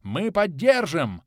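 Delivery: loud, slow rumbling cry. A narrator's reading. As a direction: rumble the pledge. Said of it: "пророкотали два маленьких огра".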